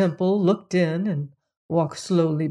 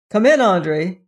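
louder call into the room; 6 dB louder than usual. Acted. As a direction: call her in, raised voice. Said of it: "called Missus Stevens".

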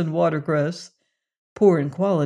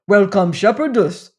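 rapturous cry; 3 semitones higher, 6 dB louder than usual. A narrator's reading. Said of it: "he cried in rapture".

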